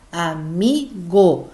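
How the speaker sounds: "amigo" split slowly as a-MI-go, MI brought out; syllable by syllable. Shown as a demonstration. Teacher shows penultimate stress, slow split "amigo" with strong MI. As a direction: break "amigo" into three slow beats, stressing mi. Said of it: "nós temos aí o mi".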